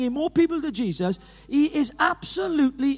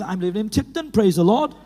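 voicing mother-in-law; 5 semitones lower than usual. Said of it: "She's old classical Pentecostal".

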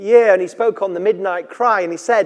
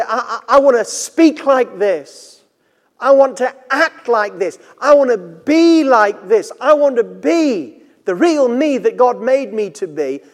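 fervent rising vow; 4 semitones higher, 4 dB louder than usual. Pretend. Voiced heartfelt desire, building.

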